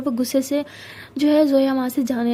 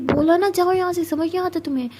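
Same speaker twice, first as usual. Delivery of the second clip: raised, sharp angry snap; snapping angrily; 5 semitones higher than usual. Acted. Boss snaps at Saniya to get lost, angry. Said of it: "Zoya उस पर भी भड़कती है".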